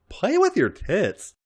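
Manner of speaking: high, slow, drawn-out order; slow command. Acted. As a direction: voice Robin giving a slow command. Robin gives an order.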